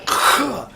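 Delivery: harsh exhaled monster noise; imitated creature noise. Game master voicing the beast digging its claws in, exhaled creature noise. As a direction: breathe out the beast's attack sound. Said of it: "as it's like".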